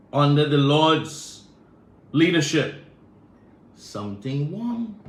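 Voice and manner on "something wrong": Trinidad saying. Retold or imitated. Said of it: "That's what they say in Trinidad".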